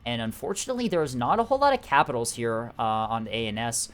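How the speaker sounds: upbeat esports caster delivery; announcer voice. Acted. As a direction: cast it like a live tournament broadcast. Casts the match as announcer.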